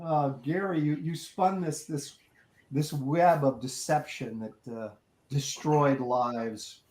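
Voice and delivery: slow, softened, mock-tragic reproach; mock-grave accusation. Prank victim accusing the friend who fooled them, mock-grave. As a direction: lay out the charge with heavy, halting mock solemnity.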